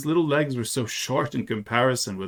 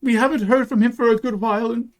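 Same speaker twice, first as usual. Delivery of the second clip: put-on high-pitched child voice, growing louder; earnest little boy; 11 semitones higher, 5 dB louder than usual. A narrator's reading. Boy tells soldier about his missing papa, earnest and high. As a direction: pipe up eagerly as a small boy. Child figure in narrated story.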